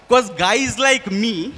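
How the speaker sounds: normal talking voice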